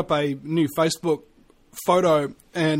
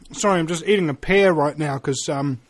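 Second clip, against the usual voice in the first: mouth full. Real, not acted. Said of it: "if I sound like I'm a mouth full of something".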